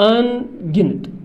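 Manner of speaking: अनगिनत said slowly, syllable by syllable; teacher modelling अनगिनत slowly; slow drawn-out word. Shown as a demonstration. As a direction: draw out अनगिनत for the class to repeat. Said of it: "अनगिनत क्या हो गया बच्चों?".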